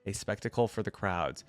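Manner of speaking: measured read-aloud storytelling; story narration. A narrator's reading. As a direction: narrate the tale evenly, with light character lines.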